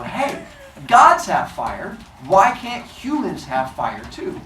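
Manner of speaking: pleading humans. Acted.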